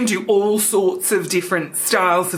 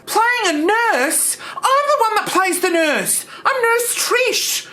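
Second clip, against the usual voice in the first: indignant; 11 semitones higher, slower than usual. Acted. Trish outraged over nurse role.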